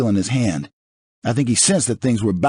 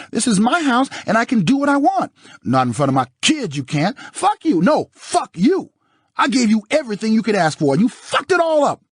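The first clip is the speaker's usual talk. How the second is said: furious screaming; 4 dB louder than usual. Acted. Nicole screams at O J.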